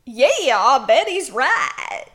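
exaggerated villain voice; slow, hammed-up drawl; Pollen voice. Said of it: "It wasn't a twangy one, it was just very exaggerated".

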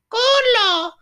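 high-pitched shout, imitating a little kid; really loud. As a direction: yell it out like a four-year-old. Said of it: "say it really loud".

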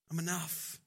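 hushed, low assurance; gentle reassurance. Acted. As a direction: reassure softly, letting it settle. Voicing God's reassurance, repeated softly.

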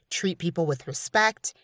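ordinary delivery

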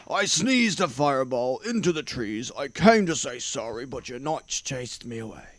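lightly voiced dragon explaining himself; a touch of dragon voice, protesting. A narrator's reading. Dragon explains the fire to king and knights, mildly put-on voice. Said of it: "he roared".

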